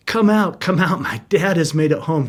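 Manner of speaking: retold child's shout. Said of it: "he starts shouting".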